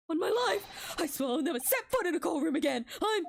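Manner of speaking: high, loud pleading vow; earnest oath. Acted. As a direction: swear it fervently. Soseki swearing an oath in relief.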